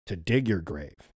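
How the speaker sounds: low monster voice. Acted. Rawhead threatens the cornered hunter, in a low slow monster voice.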